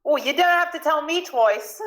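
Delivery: high-pitched Cockney exclamation; Cockney accent. Acted. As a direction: pipe up eagerly in put-on Cockney. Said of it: "not doing the Cockney accent".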